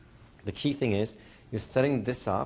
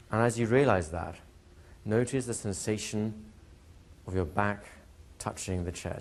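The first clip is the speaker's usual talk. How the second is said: hypnotic induction. Shown as a demonstration. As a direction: guide the class into trance gently. Leads a safe-place trance demo.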